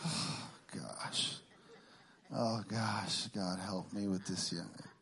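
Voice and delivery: quiet pleading aside; exasperated prayer. Retold or imitated. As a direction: sigh it to God in despair. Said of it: "exasperated aside to God".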